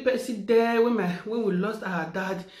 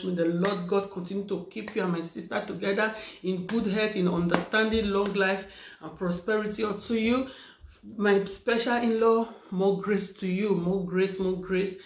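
prayer blessing. Acted. Blessing prayer over in-law.

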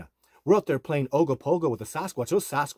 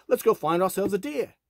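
higher-pitched, lightly attempted Scottish accent; bad Scottish accent; 7 semitones higher than usual. Drone pilot spotting a deer, imitated in a poor Scottish accent. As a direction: imitate a Scotsman, not very well. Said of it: "in his Scottish accent".

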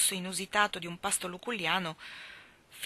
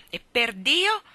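outburst higher and louder, with a fist on the table; grido furioso; 6 semitones higher, 7 dB louder, much slower than usual. A narrator's reading. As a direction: bellow it like an angry lord. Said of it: "urlò Laga". (urlo furioso)

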